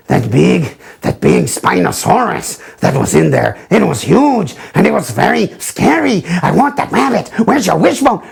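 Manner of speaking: comic put-on German accent. Host clowning on a fan's request, German accent. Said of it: "Okay, I did that, Hamza, for you".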